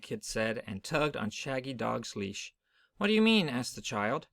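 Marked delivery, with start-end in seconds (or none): 3.0-3.5 surprised. Acted. Child puzzled by Big Kid.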